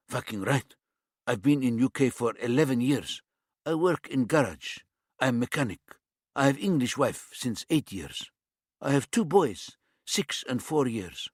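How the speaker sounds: put-on light East European accent, blunt demand; a hint of an East European tough. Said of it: "His accent was some sort of East European".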